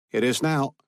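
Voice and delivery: put-on clipped Russian accent on the phone. A narrator's reading. Chernov answering Dawson on the secure line, Russian accent. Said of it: "The Russian accent was thick".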